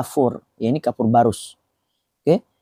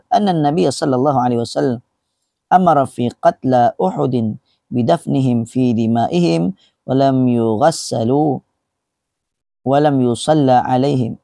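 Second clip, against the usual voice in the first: Arabic hadith recitation. Acted. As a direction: recite the Arabic deliberately, syllable by syllable. (pembacaan hadis Arab yang perlahan)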